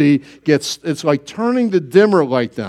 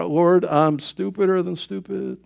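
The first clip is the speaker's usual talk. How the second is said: soft, slow, pleading prayer to the Lord; a hushed, humbled plea; 5 dB quieter, slower than usual. Retold or imitated. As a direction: quietly beg for help, slowing down. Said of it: "I cry".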